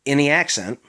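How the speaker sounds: "any accent" as a blurred "in the accent"; Maryland slur. Shown as a demonstration. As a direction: blend "in the" into one "inny". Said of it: "I just did it".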